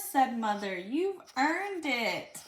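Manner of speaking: put-on reading a picture book aloud to a child; lively read-aloud for a little one; storybook reading.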